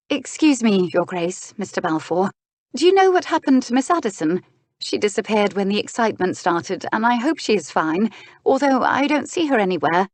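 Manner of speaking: a hint of flustered politeness; anxious young lady. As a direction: interrupt politely, with mild worry. Miss Taylor asks after missing woman.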